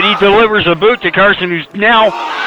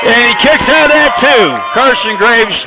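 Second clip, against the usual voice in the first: high excited kickout call; 4 semitones higher than usual. Real, not acted. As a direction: shout the kickout.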